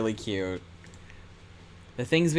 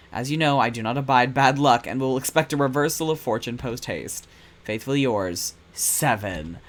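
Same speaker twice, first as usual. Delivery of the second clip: ominous letter read. Acted. Reading Seven's letter to Percival, cold and threatening. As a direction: read it like a villain's warning. Reads menacing typed letter aloud.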